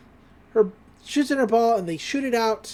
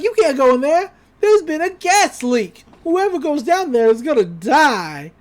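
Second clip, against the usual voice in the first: put-on warning old golf ball man; 5 semitones higher, 5 dB louder than usual. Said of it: "It's like".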